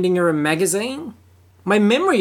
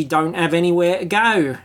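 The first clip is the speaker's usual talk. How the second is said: lightly put-on Cockney flower-girl accent, lilting upward; Eliza Doolittle accent; 3 semitones higher than usual. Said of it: "in her best Eliza Doolittle accent".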